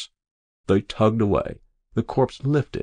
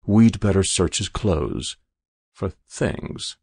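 slow; slower than usual. Acted. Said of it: "said the adjutant slowly".

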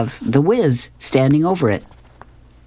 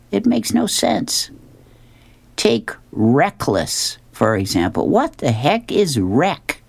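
slow, mostly higher-pitched musing pal; puzzled friend; 4 semitones higher than usual. Acted. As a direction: ponder aloud with drawn-out words. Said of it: "his friend says to him".

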